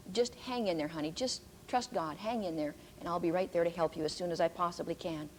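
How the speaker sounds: low, softened words of comfort; gently reassuring. Retold or imitated. Aunt reassuring her bereaved niece on the phone, gently.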